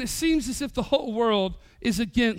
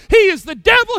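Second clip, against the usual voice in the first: higher and louder, hammed-up fury; mock outrage; 6 semitones higher, 8 dB louder than usual. Congregant ranting to the pastor about his boss, loud mock outrage. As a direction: bellow it like an offended complainer. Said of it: "some might come to me and say".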